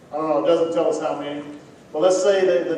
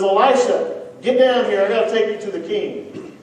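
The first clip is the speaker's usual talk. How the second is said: loud, raised call up the hill; commander yelling; 6 semitones higher, 4 dB louder than usual. Retold or imitated. Commander yelling up at Elisha, loud and high. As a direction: bark the order up at the prophet. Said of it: "the commander yells up at Elisha".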